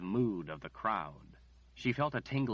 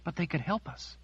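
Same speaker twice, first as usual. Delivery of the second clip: dismayed protest; 9 semitones higher than usual. Acted. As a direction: push back in disbelief. Margaret pleads.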